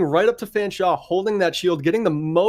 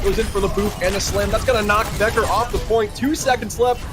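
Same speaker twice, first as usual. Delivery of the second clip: animated, raised-pitch match call; live play-by-play; 5 semitones higher than usual. Real, not acted. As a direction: keep the tension up through overtime.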